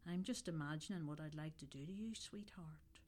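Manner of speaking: soft, close whisper right in the ear. Acted. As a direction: lean in and breathe it into her ear. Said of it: "The whisper in your ear".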